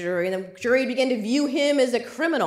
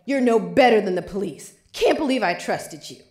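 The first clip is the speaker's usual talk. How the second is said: yelling; 4 dB louder than usual. Retold or imitated. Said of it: "he walks out yelling".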